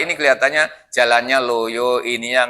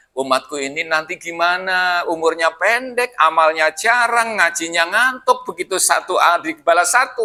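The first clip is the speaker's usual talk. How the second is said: imitated tearful lament. Prophet worries for his ummah, in a mock-tearful plaint. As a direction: lament with stretched endings, lightly hammed-up. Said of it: "nangis Nabi itu".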